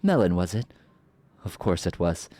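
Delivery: smug, drawn-out sorceress menace; slow theatrical villain menace. Acted. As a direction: savor every threat like a villain. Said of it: "I love playing a villain voice".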